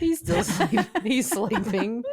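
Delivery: put-on high baby voice breaking into laughter; baby talk. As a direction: coo high, laughing through it. Baby talk about a pet.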